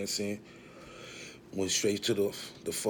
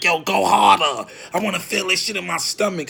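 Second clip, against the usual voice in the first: very loud, high, stretched-out yell; tipsy hollering; 8 semitones higher, 11 dB louder than usual. Retold or imitated. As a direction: holler like a tipsy hype man in the booth. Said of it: "trying to tipsy off their Henny".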